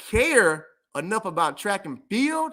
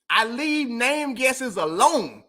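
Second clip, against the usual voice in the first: slow and deliberate; much slower than usual. Real, not acted.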